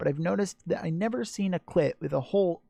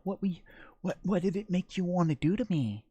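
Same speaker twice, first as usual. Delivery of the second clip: hushed, whispered question; breathy partner whisper; 4 semitones higher than usual. Acted. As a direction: drop to a teasing whisper. Partner's coy question, acted.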